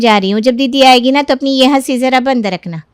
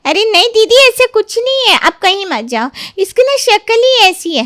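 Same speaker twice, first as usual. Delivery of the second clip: much higher, urgent placating; frantic pleading; 9 semitones higher than usual. Acted. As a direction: stop her from leaving at any cost. Mother begs aunt to stay.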